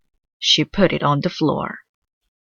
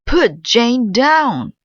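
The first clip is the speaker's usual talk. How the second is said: stern order; 8 semitones higher, 6 dB louder, much slower than usual. Acted. Doctor orders her.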